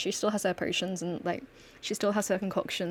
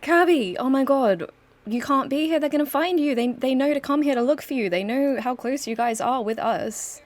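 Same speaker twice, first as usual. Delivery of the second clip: higher and louder panicked rush; alarmed warning; 5 semitones higher, 7 dB louder than usual. Acted. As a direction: urgently warn him he's in danger. Nikita panics seeing hunted Kirby.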